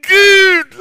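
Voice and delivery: high, loud, tearful gratitude; drawn out thank-you through tears; relieved thanks. Acted. Relieved father thanks God. (gråtmild tacksamhet)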